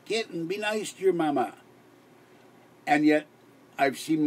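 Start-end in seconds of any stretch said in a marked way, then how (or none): 0.0-1.5 scolding the kitten. Retold or imitated. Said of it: "I go".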